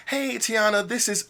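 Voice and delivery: bright warm greeting. Shown as a demonstration. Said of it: "That right there alone ... is a rapport builder".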